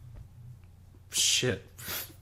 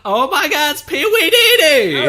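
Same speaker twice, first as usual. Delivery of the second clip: mock fan squeal; 14 dB louder than usual. Friend joking about a celebrity sighting, a laughing high squeal. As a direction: squeal like a starstruck fan, giggling.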